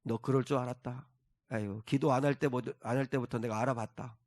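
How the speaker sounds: mock scorn. Preacher voicing an imagined mocking Jesus to the congregation, soft and scornful. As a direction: play a sneering, disappointed voice mocking Peter. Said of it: "우리 예수님이 베드로를 조롱했나요?".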